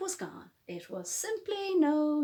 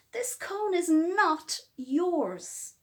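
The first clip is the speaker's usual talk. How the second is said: indignant; 4 semitones higher, 3 dB louder, slower than usual. Acted. Squirrels quarrel over cone.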